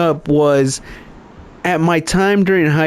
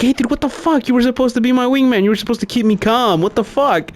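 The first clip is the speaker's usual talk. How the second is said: mock angry rant; 7 semitones higher than usual. Confronting wingman friend.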